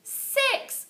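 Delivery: high, loud cheer; whole class yelling the count; shouted cheer. A narrator's reading. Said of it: "we shouted".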